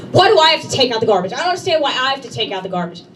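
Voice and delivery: fast, whiny mock anger; fast indignant husband whine; mock angry whine. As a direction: complain like a sulky husband. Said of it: "Then there's anger".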